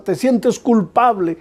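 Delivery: ordinary talk, nothing marked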